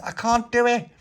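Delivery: high, loud acted wail; strained despair. Pauline to Little Pappy mid-pull, strained despair. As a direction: wail that it's too hard.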